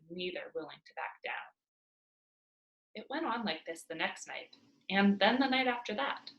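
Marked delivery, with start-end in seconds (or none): 0.1-1.3 whisper. A narrator's reading. Tense standoff narration.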